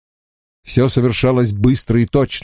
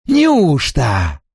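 mocking question; 3 semitones higher than usual. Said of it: "спросил джентльмен".

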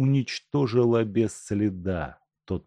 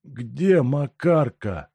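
slow, higher, dazed patient; sick man's fixed question; 6 semitones higher, 4 dB louder, much slower than usual. A narrator's reading. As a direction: ask it as if in a trance. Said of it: "повторил больной".

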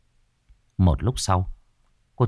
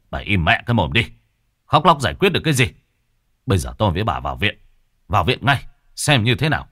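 a rushed, irritated scolding, somewhat louder; angry snap; 3 dB louder, faster than usual. Acted. Husband scolds wailing wife, irritated rushed snap. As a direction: bark at her to stop crying. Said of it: "ông bực bội quát".

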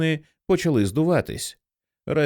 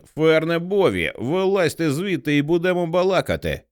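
calling out; 7 semitones higher than usual. A narrator's reading. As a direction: summon them out of the truck. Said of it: "гукнув він".

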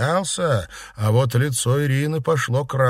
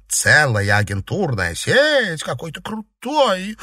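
drawn-out teasing admiration; admiring Seraphima; 7 semitones higher, slower than usual. Acted. Girl flattering a boy about his agents, playful awe. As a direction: coo slowly with exaggerated awe.

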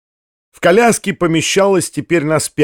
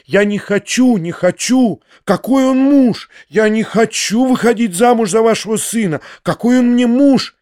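frightened refusal; 6 semitones higher than usual. Acted. Frightened woman refusing marriage.

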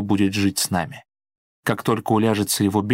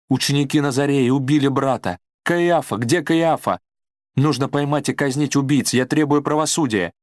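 frantic wailing; 5 semitones higher than usual. A narrator's reading. Judith screams at the household for Caiaphas and justice, frantic shrieking. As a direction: scream for revenge, beside herself. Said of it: "вопила она".

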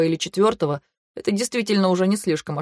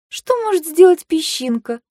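high, wry, snorting question; 10 semitones higher, 3 dB louder than usual. A narrator's reading. Vayu scoffs at Kantor, high and wry. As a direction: scoff at the idea. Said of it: "хмыкнула я".

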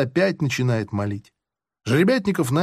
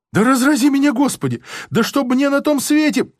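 fervent oath; 9 semitones higher, faster than usual. Acted. Prisoner swears to the officer, high fervent oath. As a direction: swear it with desperate zeal.

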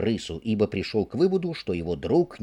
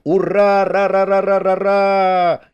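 much higher, louder, drawn-out hurrah; ecstatic cheering; 9 semitones higher, 9 dB louder than usual. Acted. Rat whooping over his find, dancing. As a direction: whoop with wild glee. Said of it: "Крыс заорал".

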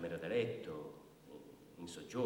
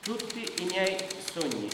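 higher and louder, stunned repetition; incredulous echo; 10 semitones higher, 8 dB louder than usual. Acted. Brigadier echoing the woman's odd complaint, incredulous. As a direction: repeat it as if you can't believe it.

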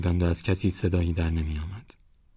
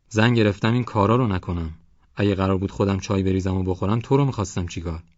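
raised, bossy grumbling at his wife; scolding headman; 3 semitones higher, 3 dB louder than usual. Acted. Village headman scolds his wife, bossy. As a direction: nag her about the tea.

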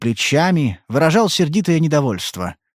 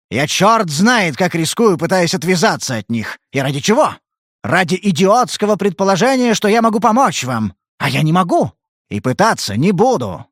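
higher, louder, venting fury; furious rant; 8 semitones higher, 4 dB louder than usual. Acted. He rages at her about the police. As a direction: hammer every phrase in anger. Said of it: "заорал он в ярости".

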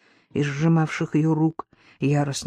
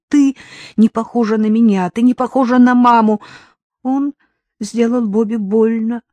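louder, higher, cruel chant; menacing father; 5 semitones higher, 6 dB louder than usual. Acted. Roberta voicing her father, menacing. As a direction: hammer the repeated words.

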